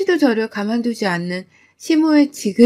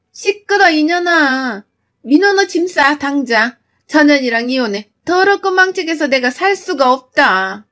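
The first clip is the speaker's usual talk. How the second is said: angry scolding; 4 semitones higher than usual. Acted. Mother-in-law yelling at daughter-in-law.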